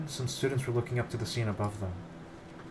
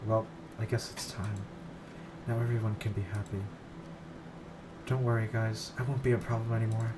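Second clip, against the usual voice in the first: put-on soft resigned girl; 3 dB quieter than usual. Voices Sayori, resigned, on the ledge.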